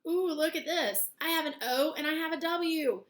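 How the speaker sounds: mock surprise. Teacher shows surprise at new word.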